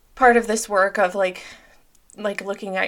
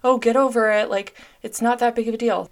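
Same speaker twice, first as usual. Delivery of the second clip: louder, brushing off her own feelings; dismissive self-talk; 3 semitones higher, 6 dB louder than usual. Retold or imitated. Mocking the self-shaming voice she no longer uses, loud and dismissive. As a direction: scold yourself to shrug it off. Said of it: "I'm not like".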